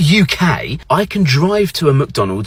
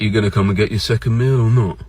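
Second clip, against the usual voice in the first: low, offhand challenge; indifferent UK staff; 4 semitones lower, faster than usual. Retold or imitated. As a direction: imitate an unhelpful British takeaway worker. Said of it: "In the U K, they're like".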